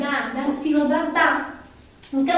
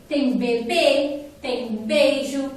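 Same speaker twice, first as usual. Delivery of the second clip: slow examples; 2 semitones lower, much slower than usual. Shown as a demonstration. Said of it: "Ó, B".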